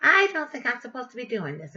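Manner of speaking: whiny imitation of a complainer; complaining. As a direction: mimic someone griping. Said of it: "She's complaining and complaining".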